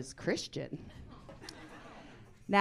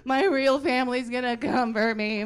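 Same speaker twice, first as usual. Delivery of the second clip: freaking out; 5 semitones higher, 9 dB louder than usual. Retold or imitated. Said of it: "She started freaking out".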